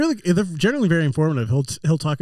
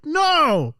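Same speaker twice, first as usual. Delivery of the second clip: sharp high No; emphatic no; 10 semitones higher than usual. Retold or imitated. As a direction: cut it off with a hard no. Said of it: "and you're like".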